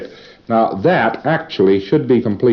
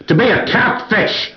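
mock shouted goal; 11 semitones higher than usual. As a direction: yell the goal at the PC to force a read. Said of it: "that didn't read either".

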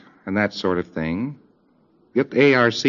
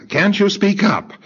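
exploding outburst; 12 semitones higher than usual. Acted. Preclear exploding at the auditor, high and tearful. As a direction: burst out shrill and upset. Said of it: "They just start exploding".

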